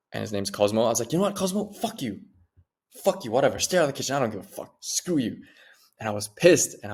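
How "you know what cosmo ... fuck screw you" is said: retold fed-up outburst, starting high; infuriated. Man cursing his cat after a chase, retold infuriated. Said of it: "I got so infuriated".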